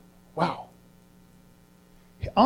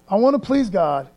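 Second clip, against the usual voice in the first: firm resolve. Shown as a demonstration. Speaker modeling a believer's vow, declared firmly aloud.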